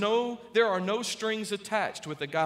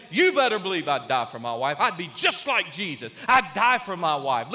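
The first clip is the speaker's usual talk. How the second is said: boastful husband; 5 dB louder than usual. Retold or imitated. Voicing proud husband.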